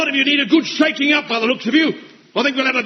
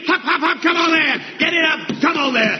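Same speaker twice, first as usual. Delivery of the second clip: shouted drill cadence; 4 semitones higher than usual. Acted. Sergeant driving the running drill.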